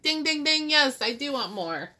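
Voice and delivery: high, loud bell-like dings; light up with sudden agreement; excited realization. Acted. Nebraska's thought process acted out.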